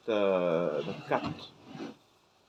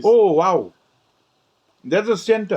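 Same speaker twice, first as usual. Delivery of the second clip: excited; 8 semitones higher, 7 dB louder than usual. Real, not acted. Tasting the juicy center.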